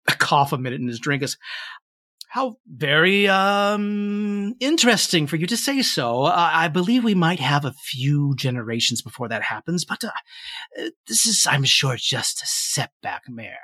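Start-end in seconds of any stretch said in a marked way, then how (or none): 2.3-13.6 rebut with hesitant, careful politeness; politely sceptical white-haired gentleman. Acted. Gentleman doubting the mayor's grand hopes, politely sceptical.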